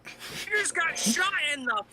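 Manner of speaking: a terrified half-sob of disbelief; panicked crying. Acted. Shock turning into a sobbing cry.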